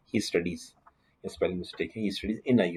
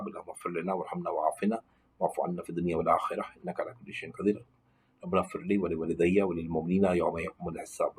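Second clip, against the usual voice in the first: Arabic dua recited on an even tone; prayer recitation; faster than usual. Real, not acted. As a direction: run the memorised prayer on without lilt, phrase after phrase. Recites Arabic supplications from memory. (दुआ की रवाँ, यकसाँ तिलावत)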